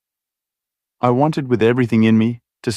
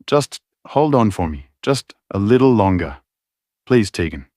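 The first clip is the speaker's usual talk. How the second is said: begging. Acted. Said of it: "His voice begged".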